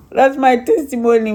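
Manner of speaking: firm declaration. Real, not acted. To the church, closing her testimony with a firm declaration. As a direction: say it out to the congregation. Restates testimony firmly after laugh.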